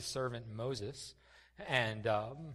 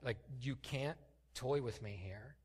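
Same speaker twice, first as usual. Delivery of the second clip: pleading with God. Retold or imitated. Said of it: "Moses is saying to God".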